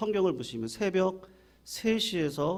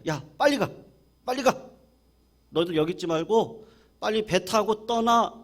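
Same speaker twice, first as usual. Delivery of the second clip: Jesus urging, raised and pressing; urgent hurrying; 4 semitones higher, 3 dB louder than usual. Retold or imitated. Jesus hurries disciples to leave, urgent raised call. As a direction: push them out fast, hurry them. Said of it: "주님이 재촉하셨다".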